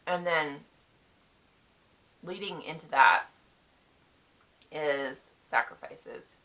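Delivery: talking while chewing a cough drop. Real, not acted. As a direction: mouth full. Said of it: "Sorry, I'm chewing on a cough drop".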